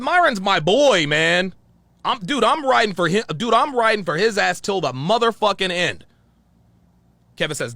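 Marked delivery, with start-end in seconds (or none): 0.0-6.0 retold heated vow. Retelling loyal angry vow.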